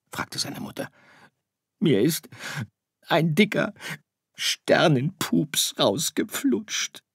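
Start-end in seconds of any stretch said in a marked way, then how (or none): 1.8-7.0 weinend. Acted. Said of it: "weinte Sirius".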